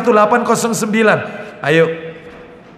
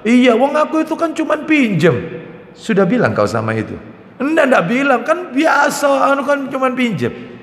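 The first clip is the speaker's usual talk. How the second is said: higher mock child's excuse; child excusing himself; 6 semitones higher than usual. Child explaining to father he only borrowed it, higher pitched. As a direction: whine it like a kid who only borrowed.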